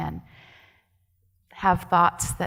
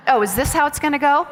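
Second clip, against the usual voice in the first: laughing exasperation; 7 semitones higher, 7 dB louder, faster than usual. Retold or imitated. Repeats the thought, laughing.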